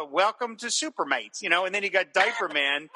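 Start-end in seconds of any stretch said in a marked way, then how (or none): 0.0-1.4 Strong Man voice. Retold or imitated. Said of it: "Strong Man's kinda talking like this".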